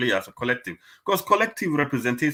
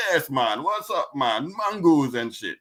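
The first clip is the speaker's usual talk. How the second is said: put-on lightly caricatured Jamaican accent; mock Jamaican catchphrase voice; 3 semitones higher than usual. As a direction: play the Jamaican stereotype, drawn out and dismissive. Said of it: "the accent is just".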